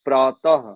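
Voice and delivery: प्रातः with a strong breathy ha at the end; visarga demo. Shown as a demonstration. Teacher showing students the visarga sound, loud ha ending. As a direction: push out प्रातः, finishing on an audible ha from the throat. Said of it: "जैसे आप बोलिए".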